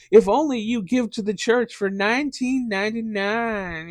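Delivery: high, loud, hammed-up TV preacher; mock preacher begging for donations; televangelist pitch. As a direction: sell salvation like a TV evangelist. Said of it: "Jimmy Swaggart style".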